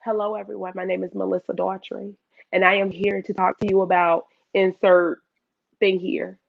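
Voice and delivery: rehearsed, careful introduction; practiced presenter voice. Shown as a demonstration. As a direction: rehearse a formal self-introduction. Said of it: "I would practice".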